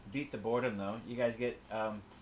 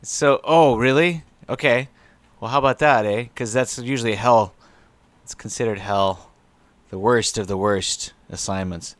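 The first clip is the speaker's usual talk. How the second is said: incredulous; 11 dB louder than usual. Acted. GM incredulous at choice.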